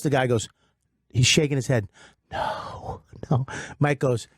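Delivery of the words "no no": imitating a whispered, reluctant no; retold hushed refusal. Radio guy shaking his head at taking calls, hushed imitation. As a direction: act out a barely voiced no.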